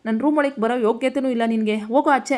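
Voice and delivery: a husband throwing his wife out of the room in a voiced temper; angry husband. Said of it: "Vamshi ಕೋಪ ಮಾಡಿಕೊಂಡು". (ಕೋಪದ ಗಂಡನ ಗದರಿಕೆ)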